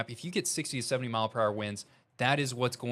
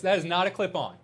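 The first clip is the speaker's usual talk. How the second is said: emphatic insistence; 7 semitones higher, 5 dB louder than usual. Real, not acted. Insists tie is real.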